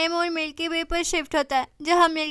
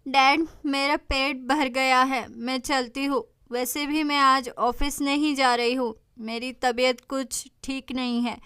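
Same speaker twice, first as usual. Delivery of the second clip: quiet tearful; 2 semitones lower than usual. Acted. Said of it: "लायला रोते रोते".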